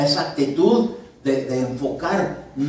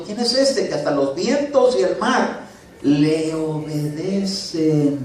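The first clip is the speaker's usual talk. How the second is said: amazed; 3 semitones higher, slower than usual. Retold or imitated. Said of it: "se maravillaron diciendo".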